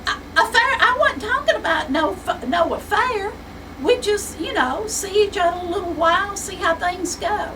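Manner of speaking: high, loud giggling through the words; giggly son teasing the secretary, laughing high. Acted. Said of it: "Sonny is really giggly now".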